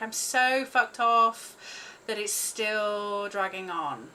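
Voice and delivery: loud, slow, furious venting; angry outburst. Real, not acted. Tapping her head, venting loud fury at the lockdowns. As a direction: let the anger burst out loud.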